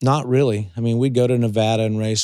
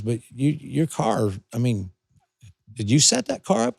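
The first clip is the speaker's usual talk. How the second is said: imitating a hesitant, puzzled questioner; tactful hedging; 3 semitones higher than usual. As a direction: feel out a touchy question. Retold tactful criticism from rival.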